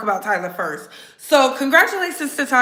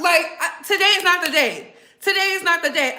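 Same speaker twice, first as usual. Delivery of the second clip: fed-up shout; 7 semitones higher than usual. Real, not acted.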